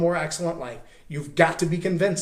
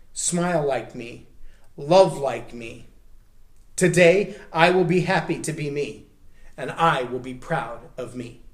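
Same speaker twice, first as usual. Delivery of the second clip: louder, proclaiming each line; declaration read aloud; 2 semitones lower, 3 dB louder than usual. Shown as a demonstration. A speaker reading the affirmation aloud, proclaiming it. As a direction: read it like a creed. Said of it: "First time I'm gonna read it".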